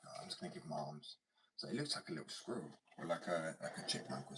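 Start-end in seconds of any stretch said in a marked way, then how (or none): 0.1-1.2 mock idea. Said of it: "And I was like".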